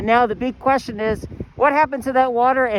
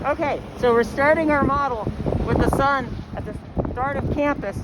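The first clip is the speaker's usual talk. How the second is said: out of breath. Real, not acted. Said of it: "I'm out of breath".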